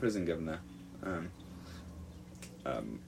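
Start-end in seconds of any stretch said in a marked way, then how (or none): 0.0-0.6 lightly put-on Cockney; a hint of fake Cockney; bad London accent. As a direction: try a half-hearted London accent. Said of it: "That was a bad accent".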